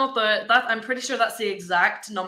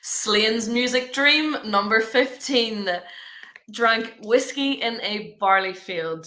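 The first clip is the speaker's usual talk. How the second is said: bingo caller; slower than usual. Acted. Slow bingo number announcement.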